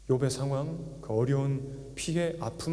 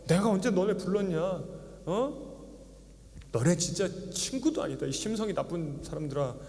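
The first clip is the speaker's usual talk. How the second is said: angry; 4 semitones higher than usual. Retold or imitated. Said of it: "화가 나서".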